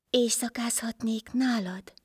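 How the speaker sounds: hushed whispered request. Acted. Swollen stranger asks for a bed, whispering. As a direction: ask in a bare whisper. Disguised Life humbly asks shelter.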